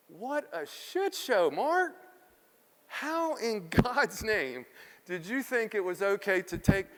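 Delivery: high, slow self-scolding; scolding himself. Retold or imitated. Speaker berating himself the next morning, slow incredulous scolding. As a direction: chew yourself out slowly, in disbelief. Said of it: "and I'm like".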